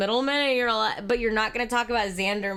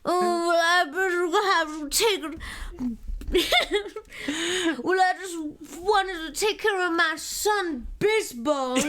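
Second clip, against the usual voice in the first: high character voice; 7 semitones higher than usual. Acted.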